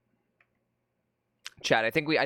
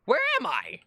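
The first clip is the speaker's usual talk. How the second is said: bewildered cry; 9 semitones higher than usual. Real, not acted. Lost in the game.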